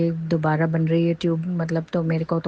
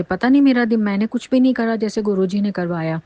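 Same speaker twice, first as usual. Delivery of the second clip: raised, louder rush of disbelief; excited exclaim; 4 semitones higher, 4 dB louder than usual. Real, not acted. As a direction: blurt it out in amazement. Exclaiming about fire.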